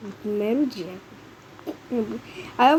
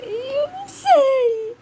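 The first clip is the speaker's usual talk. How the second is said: laughing nervously; 4 dB louder, much slower than usual. Real, not acted. Nervous in game danger.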